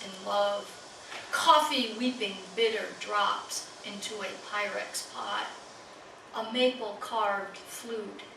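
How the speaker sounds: measured recital, each phrase falling away at its end; poetry reading. Acted. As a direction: recite line by line, pausing after each image. Reads poem in cat's persona.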